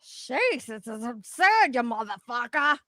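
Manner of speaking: put-on Boston accent. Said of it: "trying to do a Boston accent".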